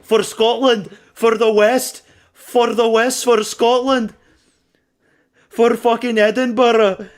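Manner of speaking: loud, high battle cry; impassioned fan yelling; rallying shouts. Real, not acted. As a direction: roar your fighter on for his country. Rallying fighter for Scotland.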